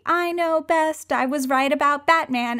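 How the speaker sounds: high, haughty know-it-all mimicry; mock her lofty tone. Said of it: "your lofty ... attitude".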